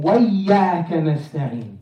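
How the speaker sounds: "وإياك" run together as "wayyaka"; merged syllables. Shown as a demonstration. Teacher showing a common mistake, "وإياك" run together. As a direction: slide "wa" into "iyyaka" in "وإياك". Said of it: "very common mistake is people saying".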